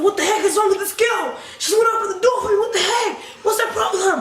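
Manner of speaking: high, fast-rising rant with laughter; hammed-up squawked complaint; mock indignant outburst. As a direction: act out exasperated disbelief. Retold outburst about locked door.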